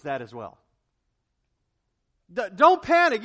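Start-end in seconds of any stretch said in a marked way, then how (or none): 2.3-3.2 high, loud and forceful; loud preacher command. Acted. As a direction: hammer the command home. Urgent sermon command.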